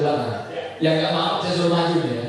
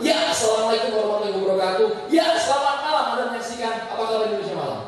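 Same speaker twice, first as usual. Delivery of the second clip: lightly mimicked TV anchor greeting, raised pitch; newscaster opening; 6 semitones higher than usual. Trainer mimics his old habit of saying ya before every line, as a TV anchor. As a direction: rattle off a broadcast opener, fast at the end. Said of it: "nggak bisa ngomong kalau nggak pakai kata".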